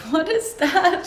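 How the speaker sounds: usual speaking voice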